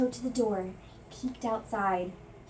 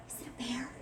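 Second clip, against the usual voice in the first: hushed whisper; 8 dB quieter, faster than usual. A narrator's reading. Frightened mouse whispering to himself about a bear. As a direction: breathe the question out unvoiced. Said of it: "Then he whispered".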